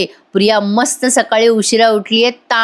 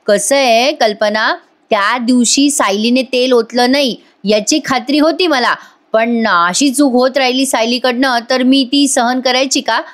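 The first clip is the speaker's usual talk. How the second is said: flustered, fumbling; 3 semitones higher than usual. Retold or imitated. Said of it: "Prataprao आता गडबडतात".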